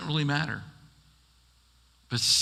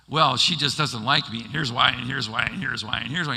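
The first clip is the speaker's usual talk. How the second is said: piling on reasons; 5 dB louder than usual. Retold or imitated. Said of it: "You're just piling it on".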